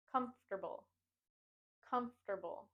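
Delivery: comfortable as COMF-ter-bull, joined up; three-syllable comfortable. Shown as a demonstration. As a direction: model comfortable with stress on COMF. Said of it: "Think of it as a three-syllable word".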